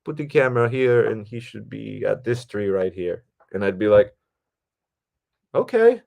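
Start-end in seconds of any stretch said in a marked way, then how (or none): 0.0-3.2 imitated foreign accent, higher pitched; Alonzo's accent. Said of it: "he's got this great accent". 5.5-6.0 very high, louder okay; retold doubtful okay. Acting his doubtful reply to cinematographer.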